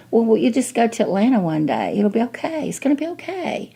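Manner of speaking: rising, high patronizing reassurance; lightly voiced condescending doctor; mock soothing doctor. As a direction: imitate a doctor brushing her off. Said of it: "he starts saying".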